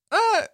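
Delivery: high, loud imitated yelp; quick high-pitched "uh" of surprise; startled "uh". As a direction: mimic a startled bystander's noise. People at door get umbrella.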